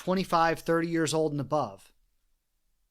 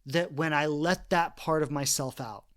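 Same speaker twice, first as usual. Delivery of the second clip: ordinary talk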